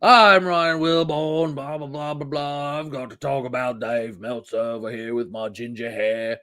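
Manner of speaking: a hint of a smug host, mocking; mock presenter. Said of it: "Exactly what he sounds like".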